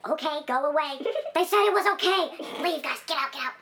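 high, loud pompous ruler shooing people; haughty ruler. Pretend. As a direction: shoo the peasants off your land. Voicing rulers shooing people away.

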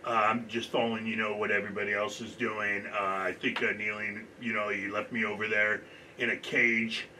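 light impression of a deep-voiced athlete; Brett Griner. Athlete answering a mock interview about kneeling, lightly imitated. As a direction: lightly imitate a basketball player being interviewed. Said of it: "I'm gonna play Brett, Brett Griner real quick".

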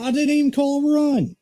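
loud, high-pitched disbelief; startled outburst of protest; real surprise. Real, not acted. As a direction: cry out, totally caught off guard. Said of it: "I was not expecting a run".

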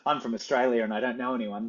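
mildly exaggerated Australian accent; hammed-up Australian. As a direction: lightly ham up the Aussie charm for strangers. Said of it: "I hammed it up a little bit".

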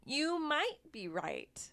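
secret hushed whisper, slowly. Shown as a demonstration. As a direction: let it slip out in a whisper. Teasing contrast with previous line.

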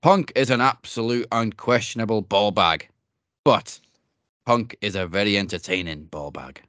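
light Scottish accent, barely put on; a hint of Scottish brogue; mock Scottish accent. Shown as a demonstration. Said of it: "I'm gonna say it in a Scottish accent".

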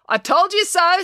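April gloating to everyone after the bear appears, smug. A narrator's reading. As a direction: gloat that you were right all along. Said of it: "said April smugly".

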